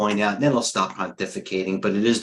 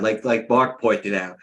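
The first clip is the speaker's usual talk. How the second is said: talking through a yawn; stretched out mid-yawn; slower than usual. Real, not acted. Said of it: "They say yawning is from a lack of".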